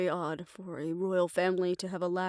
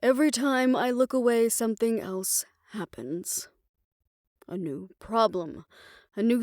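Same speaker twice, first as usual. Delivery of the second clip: exasperated venting; 2 semitones higher, 4 dB louder than usual. Acted. Overwhelmed fixer venting to a confidant, exasperated. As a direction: push it out, fed up and overwhelmed. Venting about endless new problems.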